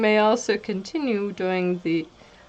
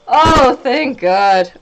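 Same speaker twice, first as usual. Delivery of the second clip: slow, loud oh of relief; loud relieved sigh; 6 dB louder, slower than usual. Real, not acted. Relief after laughing fit.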